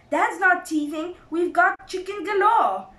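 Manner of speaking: high, loud, eager cubs; small foxes crying out. A narrator's reading. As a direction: chime in like excited little ones. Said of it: "cried the small foxes".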